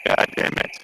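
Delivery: glitchy robotic call audio; laggy, robotic internet voice; half robot voice. Real, not acted. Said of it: "You sound like a cyborg right now".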